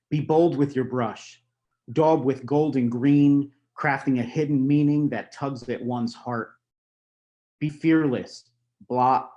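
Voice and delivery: measured poem reading with deliberate pauses; poetry recital. Acted. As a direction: recite it line by line, letting key words land. Reads a poem aloud.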